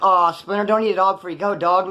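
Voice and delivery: mock reproachful plea; guilt-tripping. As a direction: lay a mild guilt trip on a buddy. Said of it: "Making me feel guilty and shit".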